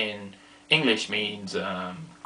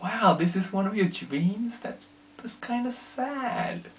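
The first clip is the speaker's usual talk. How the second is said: mock pity; 8 semitones higher, 5 dB quieter, slower than usual. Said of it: "And I'm like".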